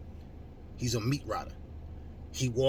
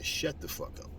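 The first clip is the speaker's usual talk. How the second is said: whispered, softer put-down; hushed rebuke; 6 semitones lower, 7 dB quieter than usual. Acted. Vlogger quietly shuts down his critics, whispered. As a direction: hiss it low and cold.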